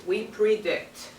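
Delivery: "we predict" said slowly, each word weighted; teacher models the phrase "we predict" with slow emphasis; stress on we predict. Shown as a demonstration. Teacher to class, stressing the new word.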